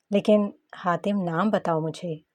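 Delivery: slow, pressing on नाम; slow insistent demand for the name; insisting. A narrator's reading. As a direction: lean hard on नाम, cutting him off. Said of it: "अपनी बात पर जोर देते बोली".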